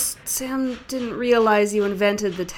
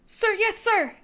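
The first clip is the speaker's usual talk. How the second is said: recruit shout; 8 semitones higher than usual. Acted. Recruit answering sergeant.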